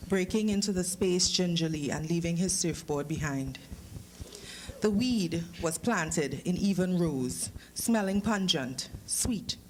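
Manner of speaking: steady, unhurried reading-aloud voice; story narration. A narrator's reading. Author reading his story to the audience, calm narration.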